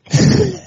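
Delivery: sudden high, loud laugh; high burst of laughter. Real, not acted. Laughs after "I get wild.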